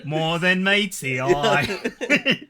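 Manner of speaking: slow trailer voice. Pretend. Transformers slogan quote.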